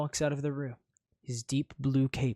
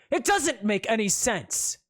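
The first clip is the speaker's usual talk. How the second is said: glowering; 8 semitones higher, 6 dB louder than usual. Acted. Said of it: "he glowers at you".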